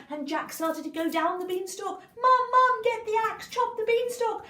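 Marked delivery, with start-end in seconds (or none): 2.2-4.4 high, loud urgent yelling; frantic shout. Acted. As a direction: scream down to your mum. Jack shouts to mother.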